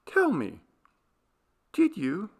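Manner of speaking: high, pointed demand; challenging. A narrator's reading. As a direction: dare him to answer. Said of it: "with an air of challenging him".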